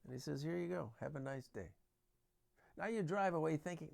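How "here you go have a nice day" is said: soft, low-key politeness; calm policeman. Acted. Policeman sending a driver off with a ticket, calm and soft. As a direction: hand it over quietly, without any edge. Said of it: "But if he's calm".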